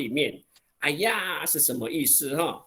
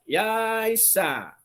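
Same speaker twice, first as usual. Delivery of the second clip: put-on old person's tone; 7 semitones higher than usual. Shown as a demonstration. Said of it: "而且都是老人口气哦".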